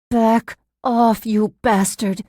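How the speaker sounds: angry, forceful rebuff; spitting the words. A narrator's reading. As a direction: spit each word at him. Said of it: "virtually spitting the words at him".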